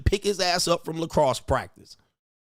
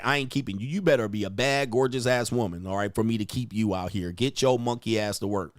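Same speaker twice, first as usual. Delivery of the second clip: usual speaking voice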